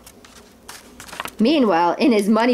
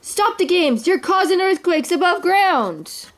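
high, urgent storybook protest; alarmed character voice, pitched up; urgent cry; 8 semitones higher than usual. A narrator's reading. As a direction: plead high, stretching the last words slowly. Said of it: "cried Scrooge, running to the king".

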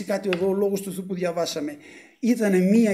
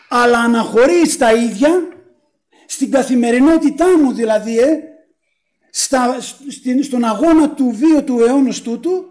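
raised, insistent pulpit voice; emphatic preaching; 3 semitones higher, 6 dB louder than usual. Real, not acted. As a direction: press the question on the congregation. Preacher pressing a question. (έντονο κήρυγμα)

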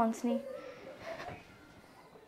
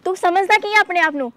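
higher, indignant challenge; offended anger; 5 semitones higher than usual. Acted. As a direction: demand he take it back. Offended girlfriend confronts him. (ਬੇਇੱਜ਼ਤੀ ਮਹਿਸੂਸ ਕਰਕੇ ਗੁੱਸਾ)

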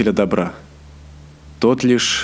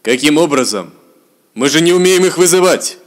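elf prince voice; 5 semitones higher, 4 dB louder than usual. Acted.

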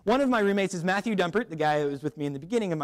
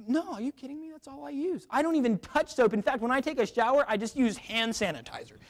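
mock earnest reply; 5 semitones higher than usual. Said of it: "It's like".

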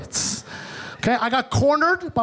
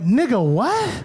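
slow, stunned double take; shocked disbelief; slower than usual. Retold or imitated. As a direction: nephew learning his mom was a soldier, stunned. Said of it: "I literally went".

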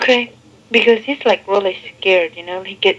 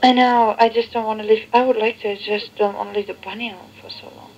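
tinny answering machine recording. Real, not acted. Played answering machine tape.

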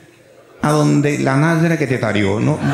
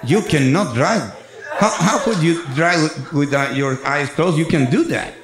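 cop English; slower than usual. Retold or imitated. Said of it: "ahí empieza un inglés raro".

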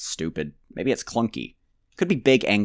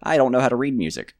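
a light, slightly higher character voice for James; voicing James; 4 semitones higher, 3 dB louder, faster than usual. Player voicing the character James, lightly put-on. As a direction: speak it as the game character, lightly. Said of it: "Not talking for James".

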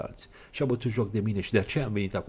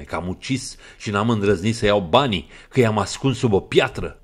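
louder, sneering with a smile; sarcastic smile; 7 dB louder than usual. Acted. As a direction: smirk through it sarcastically. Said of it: "adăugă el zâmbind sarcastic". (sarcastic, zâmbind)

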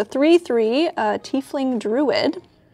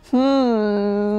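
owlbear voice; 3 semitones lower than usual. Pretend. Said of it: "Like that?".

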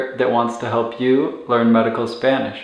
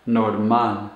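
"normal" in Spanish, falling, stressed on "mal"; stress on last syllable; 4 semitones lower than usual. Shown as a demonstration. Teacher repeating for learners, "normal" stressed on final "mal". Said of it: "put the stress or intonation on the last syllable".

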